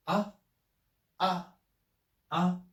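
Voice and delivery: ah said with a rising second-tone pitch. Shown as a demonstration. Teacher showing students the rising second tone on ah. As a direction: slide each ah upward like a question. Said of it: "The second tone".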